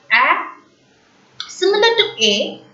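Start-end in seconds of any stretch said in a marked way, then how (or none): 0.1-0.5 "A" as an open "æ"; accent grave sound. Shown as a demonstration. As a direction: model è with "A", mouth open. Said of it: "will be pronounced as".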